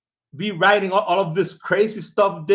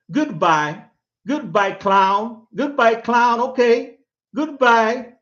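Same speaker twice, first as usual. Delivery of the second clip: slow, sing-song taunting farewell, higher and louder; taunting the nameless commenter; mocking goodbye; 3 semitones higher, 5 dB louder, slower than usual. Real, not acted. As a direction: wave the troll off with scorn. Dismissing the anonymous troll.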